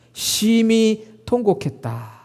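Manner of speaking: drawn out, each word weighed heavily; slow emphasis. Acted. Preacher stressing Peter's bitter weeping, slow and heavy. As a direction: let the bitter weeping sink in slowly. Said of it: "베드로가 통곡합니다".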